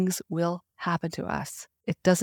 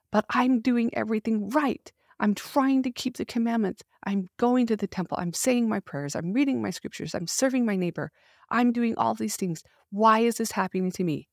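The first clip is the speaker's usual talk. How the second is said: higher, pleading list of grievances, building to why me; frustrated complaint; 5 semitones higher than usual. Retold or imitated. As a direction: complain that you've done everything right. Quoting a frustrated believer's complaint.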